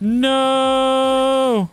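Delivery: sudden high yell of panic; panicked shout. Real, not acted. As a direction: yell it out in alarm. Falls toward the void.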